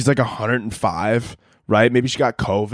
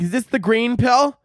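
put-on old aunt voice; 10 semitones higher than usual. Old aunt asking about pills.

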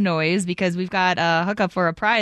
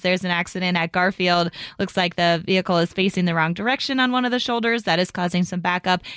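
traffic report; 2 semitones lower than usual. Acted. Traffic report read on air.

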